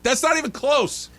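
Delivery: high shout of protest, a hint of a fan's outrage; yelled protest. Father yelling at a bad balk call, mild shout. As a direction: call it out at the ump. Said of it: "I yelled out".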